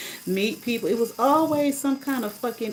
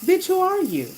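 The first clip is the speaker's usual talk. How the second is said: high, louder scornful comeback; indignant challenge; 11 semitones higher, 5 dB louder than usual. Retold or imitated. Driver challenging the rider who judged her, indignant. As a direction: fling it at her, pitch high then dropping. Replaying anger at rude rider.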